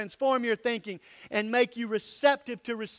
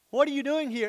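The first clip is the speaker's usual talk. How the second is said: higher startled question; Mary jolted by the angel; Mary startled at the angel's visit; 6 semitones higher, 3 dB louder, faster than usual. Retold or imitated. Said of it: "Mary is like that".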